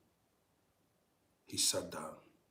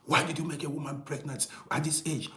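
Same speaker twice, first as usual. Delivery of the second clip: imitating angry father; 6 semitones higher, 4 dB louder than usual. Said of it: "he to get angry".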